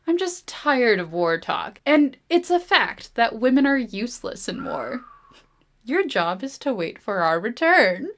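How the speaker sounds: slow, lofty brush-off with the pitch lifted on women; patronizing young man lecturing her; a lightly voiced smug student; condescending Kristoff. Kristoff dismissing Isabel, read aloud.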